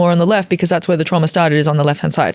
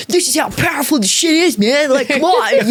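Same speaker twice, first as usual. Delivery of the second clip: hyped-up retold cheer, high-pitched, with a laugh; excited; 8 semitones higher than usual. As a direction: tell them how powerful it is, laughing. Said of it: "And we're like".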